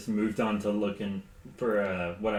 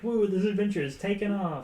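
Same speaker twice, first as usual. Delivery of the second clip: much higher, giddy delight; thrilled whoop; 11 semitones higher, 3 dB louder than usual. Retold or imitated. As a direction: squeal with adventure glee. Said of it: "she's like".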